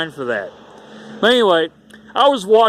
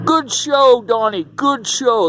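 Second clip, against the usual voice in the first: higher, lightly put-on Italian mafia accent, slow at the end; mock Italian mafia accent; 5 semitones higher, slower than usual. Mafia visitor congratulating young Donnie, lightly mock Italian mafia accent. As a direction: play a mobster patting the kid on the cheek, Italian mafia accent. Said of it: "They had that Italian ac-, mafia accent".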